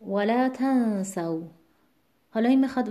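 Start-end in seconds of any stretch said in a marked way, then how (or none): 0.1-1.4 ولا تنسوا slowly, stress on the تَ of تنسوا; slow stress demo. Shown as a demonstration. Tajweed teacher slowly models the stress of ولا تنسوا.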